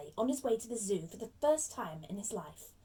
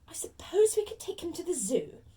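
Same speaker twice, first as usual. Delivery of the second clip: higher, louder grudging musing; slow, reluctant; 7 semitones higher, 5 dB louder than usual. Acted. Aunt weighing options for her nephew, slow and reluctant. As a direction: think it out reluctantly in a put-on aunt's voice. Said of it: "said Aunt Petunia slowly".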